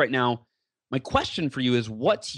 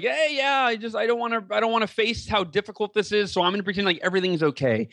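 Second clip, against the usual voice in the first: higher, breezy don't-care voice; carefree denial voice; 6 semitones higher than usual. Retold or imitated. Doctors voicing a patient in denial, higher and breezy. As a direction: play it all fine and light. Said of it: "he's checked out and he's just like".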